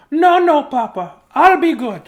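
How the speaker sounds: high, loud chirpy chick; chicken voice. Acted. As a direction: promise eagerly in a squeaky chick voice. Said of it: "that's how a chicken sounds".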